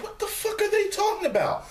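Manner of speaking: high, baffled outburst. Retold or imitated. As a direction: sound totally lost. Baffled retort.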